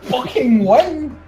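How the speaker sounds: long, high, loud shout; yelling. Acted. Player urges the wrestler to victory, drawn-out yell. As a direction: stretch out a yelled command. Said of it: "I basically yell".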